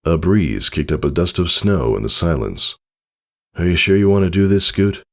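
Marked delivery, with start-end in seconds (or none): 3.6-5.0 hollow, pleading. Acted. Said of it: "His voice was hollow, pleading".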